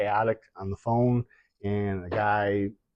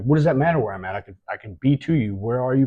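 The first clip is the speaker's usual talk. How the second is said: louder insistent questions; a worried father pleading with a kidnapper; retold frantic pleading; 3 semitones higher, 5 dB louder than usual. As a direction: press the caller hard in panic. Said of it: "I start panicking".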